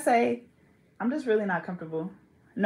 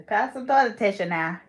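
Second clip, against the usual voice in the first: country talk, tissue as tisha; lightly put-on country accent. Mocking y'all's speech, country accent. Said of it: "That sound like country".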